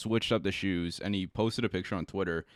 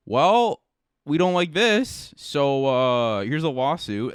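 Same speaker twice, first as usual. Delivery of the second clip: loud, high-pitched mock complaint; put-on huffy protest; mock indignation; 6 semitones higher, 7 dB louder, slower than usual. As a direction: play an offended company, drawn-out and high. Mocking Nike's reaction in a quote.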